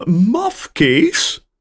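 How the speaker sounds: be insulted by the word; offended caller. A narrator's reading. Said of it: "vraagt de stem boos".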